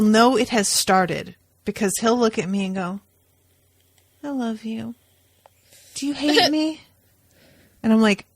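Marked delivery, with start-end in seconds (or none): 4.2-6.8 imitating drunk Owen. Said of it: "Owen, when he has had too much to drink".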